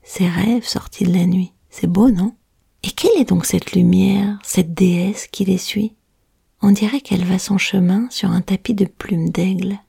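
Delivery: hushed tale told close to the ear; whispered storytelling. A narrator's reading.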